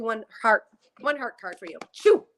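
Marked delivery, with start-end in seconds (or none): 1.9-2.2 loud shoo. Real, not acted. Shooing energy away.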